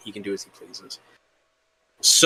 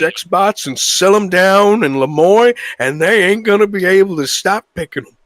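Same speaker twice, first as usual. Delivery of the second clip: higher, louder hammed-up salesmanship; scheming gang leader; 5 semitones higher, 5 dB louder than usual. Gang leader pitching Arthur a scheme, grandly insistent. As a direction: sell the mad plan with theatrical conviction.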